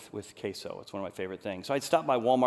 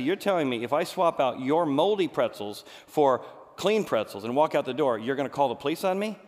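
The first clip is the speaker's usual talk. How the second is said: incredulous anger; 5 dB louder than usual. Retold or imitated. Arguing with the clerk.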